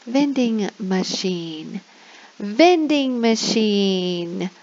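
drilling a new word slowly; slow teacher modelling. Shown as a demonstration. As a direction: stretch each word out slowly for kids. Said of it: "I normally say these words about three times".

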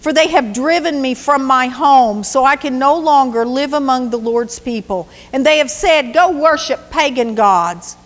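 a wronged son pleading with the king. Acted. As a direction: beg the king to see reason. David's anguished plea to Saul.

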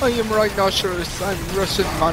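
hammy fake Russian accent; clumsy Russian accent put on for laughs; bad Russian accent. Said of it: "I do a bad Russian accent".

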